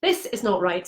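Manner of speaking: softly, with a touch of emotion; quietly upset retelling; a bit emotional. Retold or imitated. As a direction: let a little emotion show, softly. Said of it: "getting a bit emotional".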